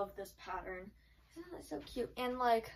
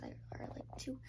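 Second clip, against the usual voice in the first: whispering; 2 semitones higher, 9 dB quieter than usual. Real, not acted. Whispered filler mid-sentence.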